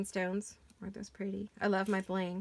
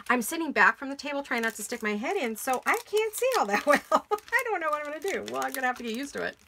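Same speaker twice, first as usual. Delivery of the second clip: laughing; 5 semitones higher, 7 dB louder than usual. Real, not acted. Laughing at awkward posture.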